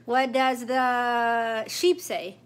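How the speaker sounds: slow, drawn-out sing-song question. Real, not acted. Quizzing toddler, slow.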